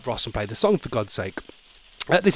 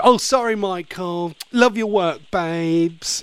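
fake sweet apology; slower than usual. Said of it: "trip him up and go".

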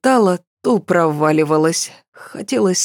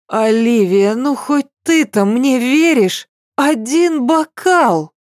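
slurring, much higher insistence; tipsy pleading; 6 semitones higher than usual. Acted. Tipsy girl begs friend to believe.

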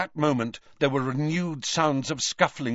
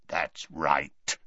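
rasping voice; 7 semitones lower, 4 dB quieter than usual. A narrator's reading. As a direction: lower rasping bark of a voice. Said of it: "rasped the other".

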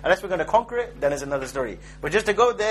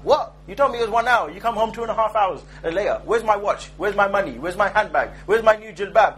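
mildly indignant, raised-pitch interrogation; mock scolding wife; 3 semitones higher than usual. Wife questions husband who came home late, mock scolding. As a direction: fire off questions like a put-out wife.

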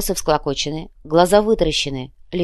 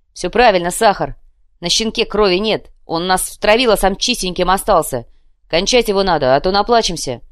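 fierce urging; 2 semitones higher, 5 dB louder than usual. Acted. Glyba urging to kill Krokhin.

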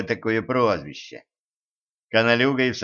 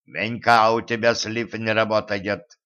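gurgling voice. Acted. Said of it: "булькающим голосом сообщил он".

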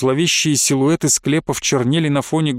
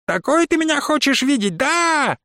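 shrill shriek, voice pitched very high; shrieking witch; 12 semitones higher than usual. A narrator's reading. Witch shrieks at her stepson, high screech. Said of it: "завизжала она".

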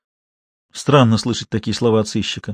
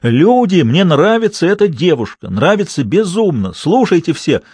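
shouting at the top of his lungs; 6 semitones higher, slower than usual. Acted. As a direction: yell it out for everyone to hear. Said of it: "и закричал во всё горло".

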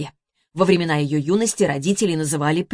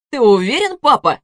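louder, higher teasing question; sly, mocking, louder; 6 semitones higher, 6 dB louder than usual. A narrator's reading. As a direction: son taunting his father. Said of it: "насмешливо спросил Ярик".

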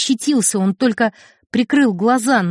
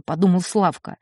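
plain reading voice

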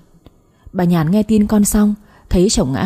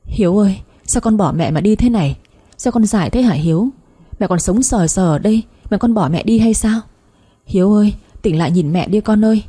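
grieving call, only mildly raised; understated wailing. Acted. Mother embracing her dead son, in a restrained acted wail. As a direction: plead with him, a touch of a wail. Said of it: "ôm chầm lấy mà gào lên".

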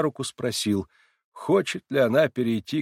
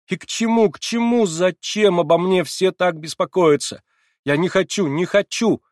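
frenzied cry; 9 semitones higher, 7 dB louder than usual. A narrator's reading. Frenzied girl rejecting everyone's concern, high loud shriek. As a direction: scream it as if beside herself. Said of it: "вскрикнула вдруг Нелли в каком-то исступлении".

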